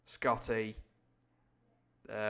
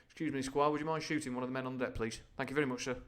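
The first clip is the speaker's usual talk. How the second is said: mock politeness; faster than usual. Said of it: "paraphrasing the captain's polite request".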